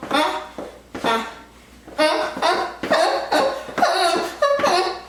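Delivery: rhythm sounds with a laugh; laughing through the count; laughing beats. Real, not acted.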